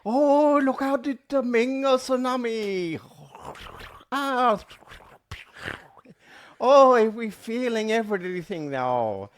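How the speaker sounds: high, loud, hammed-up Asian accent; mock Asian accent. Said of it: "That's how they talk".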